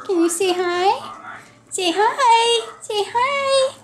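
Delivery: high sing-song coaxing to a puppy. Real, not acted. Coaxing puppy to greet camera.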